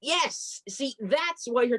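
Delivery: a high, bright burst of yes; excited yes. Acted. Cheering her friend's pitch, an excited high yes. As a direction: jump on the idea with delight.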